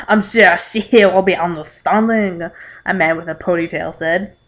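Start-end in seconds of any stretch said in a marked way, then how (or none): 0.1-2.5 mock French accent; a rough stab at sounding French. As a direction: attempt a hammy French accent. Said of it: "Is that supposed to be France?".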